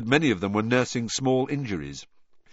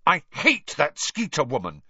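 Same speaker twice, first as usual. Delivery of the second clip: louder, bitter burst of anger; mild savage outburst; 7 semitones higher, 5 dB louder than usual. A narrator's reading. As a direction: spit out her hatred of Skeeter. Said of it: "she burst out savagely".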